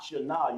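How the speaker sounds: "shana" as two syllables with an open final a; two separate sounds. Shown as a demonstration. Teacher warning the class off this reading, "shana" in two syllables. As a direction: break "shana" into sha and na. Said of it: "You don't want to say that".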